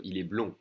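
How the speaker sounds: blond ending on the nasal vowel; silent D. Shown as a demonstration. Teacher modelling the form for a boy, silent D. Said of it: "no D".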